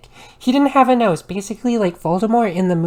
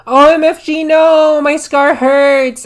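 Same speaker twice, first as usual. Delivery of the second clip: much higher, loud scream, slowing at the end; 7 semitones higher, 9 dB louder, slower than usual. A narrator's reading. Vampire screaming about his scar, high and loud. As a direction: shriek it in pain. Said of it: "He started to scream".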